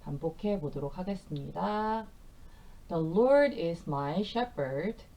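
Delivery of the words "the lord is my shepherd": each word slow and clear for learners; slow repeat-after-me. Shown as a demonstration. Teacher leading students through the verse slowly. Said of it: "일 절 전체 구절 세 번 반복해 보도록".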